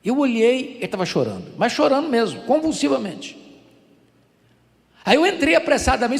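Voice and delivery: usual speaking voice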